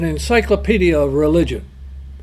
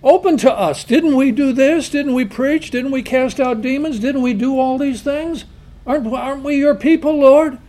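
raised, pleading voice of the shut-out crowd; desperate call to the Lord at a shut door; pleading cry; 5 semitones higher, 3 dB louder than usual. Retold or imitated. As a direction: beg to be let in, loud and high.

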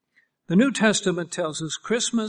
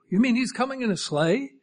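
acted wide-eyed excitement, higher; eager kid's disbelief, pitched up; excited child; 4 semitones higher, 4 dB louder than usual. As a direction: marvel like a thrilled child, rising at the end. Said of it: "that's exciting to you".

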